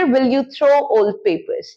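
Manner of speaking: very slow, each word apart; slow model question. Shown as a demonstration. Teacher models a where question, very slow. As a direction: ask it slowly for learners. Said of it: "simple future".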